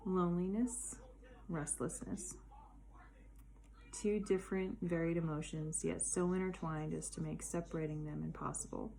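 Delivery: measured poetry reading in connected phrases; poem recitation. Acted. Poet shares her poem on loneliness with listeners, reciting. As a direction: recite it as a heartfelt personal poem. Reads own poem aloud.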